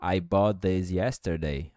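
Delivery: "bought this" joined, one T; "I bought this yesterday" smooth, single T; linked bought this. Shown as a demonstration. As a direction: run "bought this" together. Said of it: "Então, junta".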